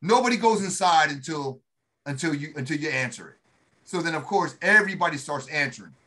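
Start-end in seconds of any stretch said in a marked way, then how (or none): 0.0-3.3 drill sergeant voice. Retold or imitated. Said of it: "switches back to a drill sergeant voice".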